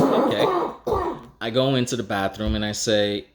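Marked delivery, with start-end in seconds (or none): 0.0-1.2 meek okay. Retold or imitated. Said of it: "So I said".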